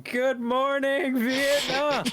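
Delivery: quick Robin Williams impression. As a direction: stretch it out like a radio host. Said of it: "Robin Williams going".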